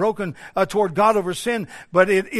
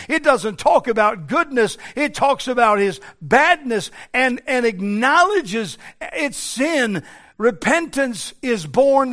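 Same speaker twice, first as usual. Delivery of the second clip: raised, louder preaching voice; forceful preaching; 3 semitones higher, 5 dB louder than usual. Real, not acted. Preacher warns congregation about blindness to their own sin, forceful preaching. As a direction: drive it home from the pulpit.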